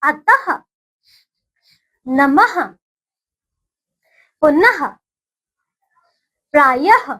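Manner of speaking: put-on slow, clearly spaced words for children to repeat; teacher's call-and-repeat drill; repeat after me. Shown as a demonstration. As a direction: say each word cleanly, pausing for the class to echo. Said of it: "बोलिए मेरे साथ".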